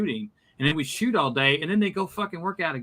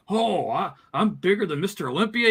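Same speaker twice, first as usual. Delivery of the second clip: higher-pitched mock excited bragging; excited boast; 6 semitones higher than usual. Retelling Jesse's reaction to the arm measuring, excited boast. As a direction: crow it like a thrilled rival, imitating him. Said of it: "Jesse got all excited".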